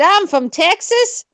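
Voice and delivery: slow, drawn-out Texas twang; Texas accent. Pretend. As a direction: stretch it out like a Texan.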